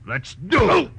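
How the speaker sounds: loud, high shout with effort; fighting shout. Acted. Detective and thug come to blows, fighting shout. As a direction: yell it mid-lunge, ending in a cry.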